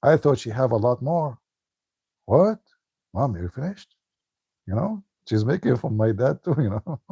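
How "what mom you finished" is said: reliving the shock at the empty tray. Retold or imitated. Son finds out Mom finished cooking, shocked high disbelief. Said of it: "I was shocked".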